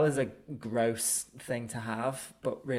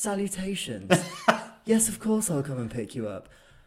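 put-on posh British voice, a touch higher; 7 semitones higher, 5 dB louder than usual. Act out the film character agreeing to come and pick someone up, in a posh Princess Diana voice. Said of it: "With her posh Princess Diana voice".

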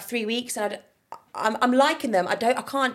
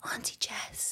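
whispering, much quieter; 13 dB quieter than usual. Retelling a five-year-old child coming up to her and whispering to her. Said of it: "she whispers and she goes".

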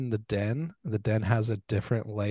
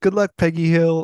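mock loud, high, bubbly, over-cheery tone; 7 semitones higher, 10 dB louder than usual. Retelling what a woman said on parting, in a put-on very cheery voice. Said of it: "like in a very cheery voice".

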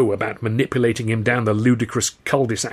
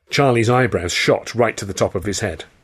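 ordinary delivery

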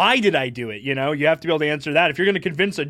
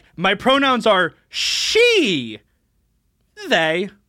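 "she" hit hard, louder than "they"; 5 semitones higher, 4 dB louder than usual. Showing how the host states her pronouns: louder on she. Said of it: "She is louder".

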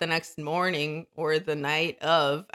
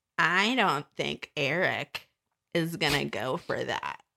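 put-on slow, snide schoolyard mean-girl drawl; 2 semitones lower, 4 dB quieter than usual. Quoting how a woman said something, in a mock snide mean-girl tone. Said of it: "she specifically said it like this in a way where like it's like the mean girl at school says it".

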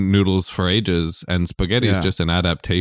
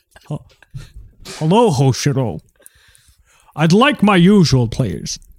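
put-on Scottish accent voice; 8 semitones higher, 4 dB louder than usual. Role-playing ordering the usual from a waiter: Sean Connery voice. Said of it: "I'm Sean Connery".

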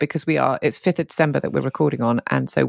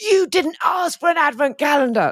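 mock cross tone, very high-pitched; 13 semitones higher than usual. Retelling Dave's reply about the advent calendar: imitating Dave sounding cross. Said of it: "in a quite sort of cross way".

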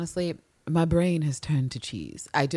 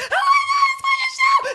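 put-on scream, higher and louder; 7 dB louder than usual. Describing fans on Tumblr reacting to the show: imitating fans screaming. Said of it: "a bunch of queers screaming like".

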